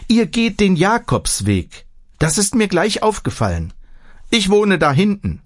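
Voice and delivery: a hint of a chatty old granny; old village woman. A narrator's reading. (leicht gespielte alte Dorffrau, höher und eifrig)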